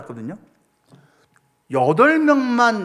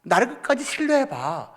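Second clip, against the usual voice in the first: lightly voiced God. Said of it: "라고 말씀을 하십니다".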